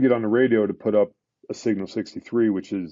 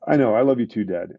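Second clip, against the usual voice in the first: breezy retold child; 4 dB louder than usual. Seven-year-old son to dad before handing back the phone, breezy. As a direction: imitate a kid hurrying off the phone. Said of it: "he goes to hand the phone back".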